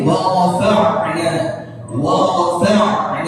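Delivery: "wa rafa'na" with a full ain before "na"; careful teacher's model of ain in "rafa'na"; correct ain. Shown as a demonstration. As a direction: sound the throaty ain in "rafa'na". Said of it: "Jangan dibaca wa rafa'na".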